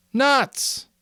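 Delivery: high, scoffing exclamation; shocked. A narrator's reading. Piggy to Simon, a shocked high scoff. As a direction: scoff before you can stop. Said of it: "shocked out of decorum".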